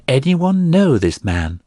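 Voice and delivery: calling to the crowd. A narrator's reading. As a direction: call out across the crowd. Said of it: "cried the priest".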